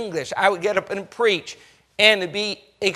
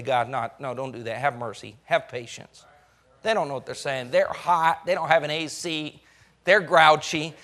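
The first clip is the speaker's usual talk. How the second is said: much softer and lower plea; quiet pleading; 8 semitones lower, 6 dB quieter than usual. Acted. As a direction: plead gently for mercy. Moses pleading with God.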